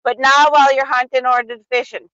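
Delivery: broad, explanatory Wisconsin accent; clarify it in a thick Wisconsin accent. Shown as a demonstration. Spelling out the wedding-day law, Wisconsin accent. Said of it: "with the Wisconsin accent if you want".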